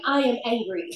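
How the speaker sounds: mock anger with no feeling in it; robotic anger. Doing the sponsor's anger exercise, robotic and half-hearted. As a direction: recite it dutifully, like an assigned exercise. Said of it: "I did it robotically".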